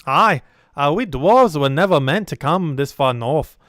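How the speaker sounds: put-on sturdy dwarf, slow swooping accent; drawn-out, emphatic dwarf brogue. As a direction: play a stout dwarf staying behind to fight. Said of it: "we don't get to do dwarf voice".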